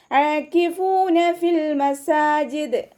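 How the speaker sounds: ഫിൽ with light ف, long ya cut short, slow chant; tajweed recitation. Shown as a demonstration. Teacher models the phrase for students, slow chant. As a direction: recite ആകിഫൂന ഫിൽ മസാജിദ് high and drawn. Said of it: "യാ മദ്ദിനെ നമ്മൾ കൂട്ടി ഓതുമ്പോൾ cut ചെയ്ത്".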